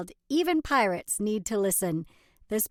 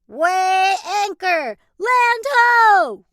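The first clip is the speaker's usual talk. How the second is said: slow loud high pirate orders; hearty pirate shouting; pirate calls; 9 semitones higher, 11 dB louder, much slower than usual. Acted. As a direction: boom it across the deck. Reader voicing pirate calls.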